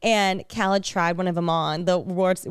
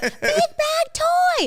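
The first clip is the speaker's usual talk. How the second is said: mock shrill, very high-pitched little-kid scream. Retelling a video call with a nephew: imitating Holden screaming. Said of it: "he just starts screaming".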